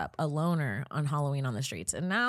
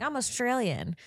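lightly raised voice for a retold quote; retold introduction; 7 semitones higher than usual. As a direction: quote her introducing herself, a little high. First retelling of flirty introduction.

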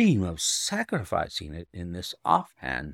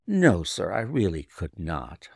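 firm refusal; 4 semitones lower than usual. Acted. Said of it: "I answered firmly".

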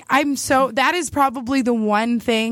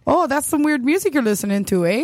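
mock Canadian accent; faster than usual. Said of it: "they're Canadian, so they're very polite".

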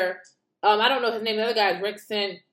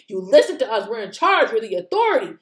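mock authority; 5 dB louder than usual. Voicing media as bosses.

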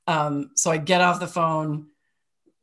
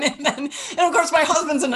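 laughing high through the words; words bubbling with real laughter; 10 semitones higher than usual. Real, not acted. Laughing while telling the story.

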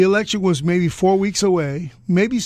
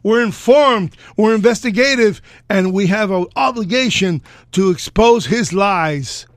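mock-pompous journalist voice, louder; 3 semitones higher, 3 dB louder than usual. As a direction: puff yourself up like self-important press. Mock self-important press voice.

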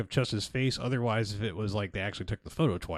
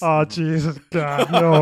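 much higher and far louder, a hammed-up wail; mock hysterical wife; 7 semitones higher, 14 dB louder, much slower than usual. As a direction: wail like a terrified wife in a bad movie. Mocking the wife's panic.

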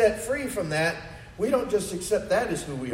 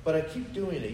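quiet inner lament; 5 dB quieter than usual. Retold or imitated. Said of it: "You're like".

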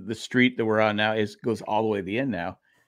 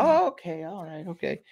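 put-on old neighbor lady; 6 semitones higher than usual. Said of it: "She goes".

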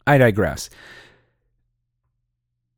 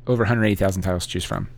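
rushed ad read; 5 semitones lower, 4 dB quieter, much faster than usual. Shown as a demonstration. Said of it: "Okay, I'm done".

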